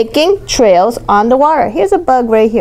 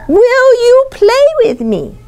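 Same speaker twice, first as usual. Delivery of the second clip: pleading question; 11 semitones higher than usual. Acted. Girl's plea to rabbit.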